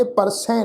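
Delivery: ਪਰਸੈ with a nasalised ending, "par-sain"; ਪਰਸੈ ending on nasal "ai". Shown as a demonstration. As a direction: send the last vowel of ਪਰਸੈ through the nose. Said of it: "ਨਾਸਕੀ tone ਵਿੱਚ ਪਾਠ ਉਚਾਰਨ ਹੋਏਗਾ".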